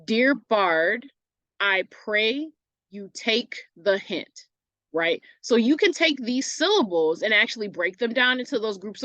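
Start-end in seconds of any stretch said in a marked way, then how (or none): 0.1-4.5 slow metered reading, beats spaced out; scanning the meter. Shown as a demonstration. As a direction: read it so each iambic foot lands. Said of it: "we have iambic pentameter happening".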